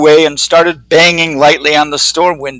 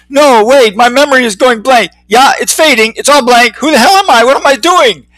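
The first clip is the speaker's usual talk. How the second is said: dazed Skip; 7 semitones higher, 4 dB louder than usual. Acted. Skip dazed after crash.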